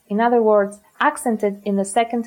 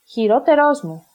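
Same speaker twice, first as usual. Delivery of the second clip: "χειρότερός μου" stressed on ρό and ρός; "μου" unstressed after stressed ρός; double stress; 3 semitones higher than usual. Shown as a demonstration. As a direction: say "χειρότερός μου" as one unit, two stresses. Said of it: "can also cause enklisis".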